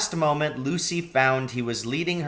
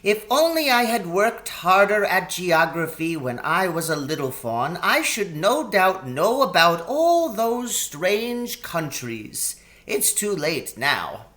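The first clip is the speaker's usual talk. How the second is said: a faun sighing over lost lessons; wistful regret, lightly played; melancholy; 7 semitones higher, 3 dB louder than usual. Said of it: "in a rather melancholy voice".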